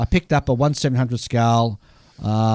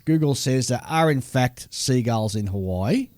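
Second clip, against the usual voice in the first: letter read aloud; 3 semitones higher than usual. Acted. Reads a listener letter aloud.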